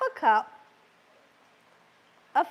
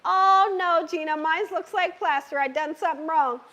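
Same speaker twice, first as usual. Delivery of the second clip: mock panic; 3 semitones higher than usual. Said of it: "you think".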